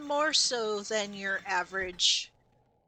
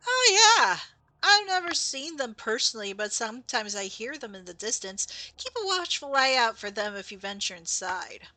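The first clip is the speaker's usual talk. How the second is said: animated ghost character; 2 semitones higher, 4 dB louder than usual. Acted. Ghost warning a player about the big one, animated then settling. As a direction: play the ghost exclaiming, then cautioning.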